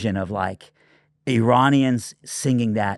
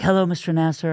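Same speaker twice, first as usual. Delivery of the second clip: young woman's greeting, voiced much higher; a lightly imitated eager girl on the phone; imitating young woman; 8 semitones higher than usual. Young worship leader answers pastor's call, higher mock voice. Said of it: "she's like".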